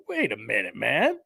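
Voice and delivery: lightly voiced bear, astonished and high; incredulous bear. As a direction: play the bear stunned that a fluffball chases him. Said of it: "bear coulda turned around and went".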